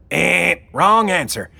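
loud mock game-show buzzer; buzzer sound. A narrator's reading. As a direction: buzz him out. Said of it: "made a loud buzzer sound".

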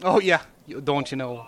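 mock Minnesotan accent.

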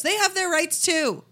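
mocking, high and slow; sarcastic. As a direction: sneer it in mock defence. Mocking Holocaust deniers' defence.

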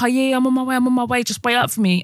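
a hint of the boyfriend brushing her off; mock breezy promise. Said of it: "He'd be like".

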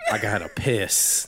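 slow, mock-gruff piss voice. Shown as a demonstration. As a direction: drop into the joke voice, slowly. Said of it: "it's my piss voice".

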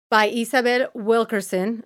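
Isabel Wilkerson with Spanish vowels, a light Spanish accent. Shown as a demonstration. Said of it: "I just said it in my Spanish accent".

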